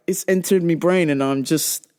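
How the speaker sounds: British-tinged casual speech; British accent slipping in. Real, not acted. Blaming British TV for her English, British accent slipping in. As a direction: let a bit of British accent creep in. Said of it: "That's why my English is kicking up".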